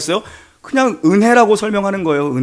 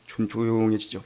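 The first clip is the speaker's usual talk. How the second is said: much lower and softer; sudden hush; 10 semitones lower, 13 dB quieter than usual. Shown as a demonstration. Preacher telling of the storm calming, hushed. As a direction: let the voice sink away. Storm falling calm, voice drops.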